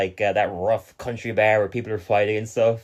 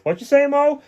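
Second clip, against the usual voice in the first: high hammed-up Barney; mock Barney call. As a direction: call out like a dopey drunk. Quoting Barney returning.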